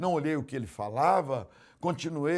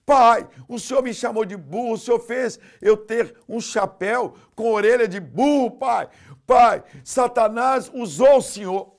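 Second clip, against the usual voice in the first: high, loud tearful accusation; boy crying out to his father; shouting while crying; 8 semitones higher, 12 dB louder than usual. Retold or imitated. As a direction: cry out to father. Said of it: "o menino gritou chorando".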